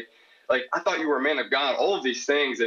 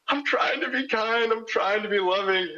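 mock pleading; 10 semitones higher than usual. Retelling how he begged his crying date to see he meant well, high and pleading. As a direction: squeak out a desperate defence.

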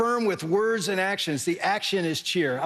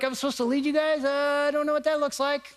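higher-pitched, lost and unsure; clueless protest; 7 semitones higher than usual. Retold or imitated. Husband facing his family in the family room, clueless protest. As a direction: act out a man at a loss.

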